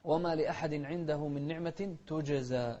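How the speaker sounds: slow recitation, تجزى with a bounced ج; qalqala on jeem. Shown as a demonstration. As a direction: give the ج of تجزى an echoing release. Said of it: "القلقلة في كلمة تجزى".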